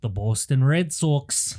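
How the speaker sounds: mock Scottish brogue on Boston Red Sox; Scottish accent. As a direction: say it like a Scotsman, slowly. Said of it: "that was Scottish".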